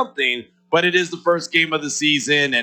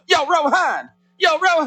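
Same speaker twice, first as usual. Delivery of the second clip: New Jersey guy; 12 semitones higher than usual. Retold or imitated. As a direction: hail a buddy across the block, higher. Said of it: "I sound like I'm from New Jersey".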